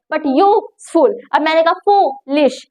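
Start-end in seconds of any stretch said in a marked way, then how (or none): 0.3-1.2 "यूजफुल" slowly split, use, pause, ful; syllable by syllable. Shown as a demonstration. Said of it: "यहाँ पर हम थोड़ा सा time लगाते हैं". 1.7-2.7 "फूलिश" split into foo, then lish; syllable by syllable. Shown as a demonstration. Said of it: "यहाँ पर हम थोड़ा सा टाइम लगाते हैं".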